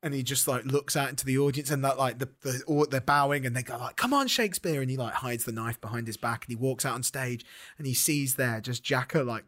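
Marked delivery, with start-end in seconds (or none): 4.0-4.8 high, put-on beckoning call; calling someone onstage. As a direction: coax them out in a lifted stage call. Bowing actors beckon Shakespeare onstage.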